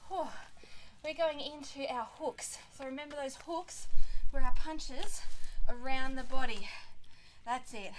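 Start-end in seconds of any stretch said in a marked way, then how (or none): 4.3-6.7 booming coach call over the music; loud coach call. Real, not acted. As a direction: shout it to the class. Workout coach calling out.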